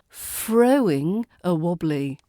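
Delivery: THROWING said as frowing. Shown as a demonstration. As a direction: swap the th in THROWING for f. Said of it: "sounding, well, like someone".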